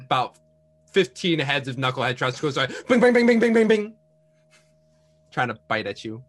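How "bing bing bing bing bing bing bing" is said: higher, louder bings popping out in a row; quick cartoon pops rising higher and louder; popping bing sounds. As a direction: imitate fish heads popping up one by one. Trout heads popping up.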